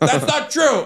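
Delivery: mock very high protesting yell. Speaker recounting their mom yelling at them during shows, imitating her yelling. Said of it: "is yelling at me".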